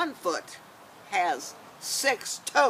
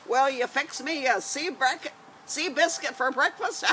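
high pirate question; 5 semitones higher than usual. Acted. Scalawags' quoted question.

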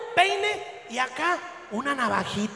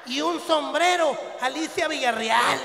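excited joke. Retold or imitated. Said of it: "Dije yo".

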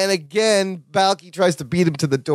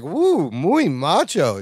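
slow flirty purr; drawn-out admiring coo; much slower than usual. Retold or imitated. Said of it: "She's like".

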